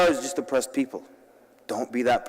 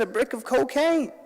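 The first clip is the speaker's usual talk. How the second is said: laughing dealer; 9 semitones higher than usual. Retold or imitated. Drug dealer voiced, laughing.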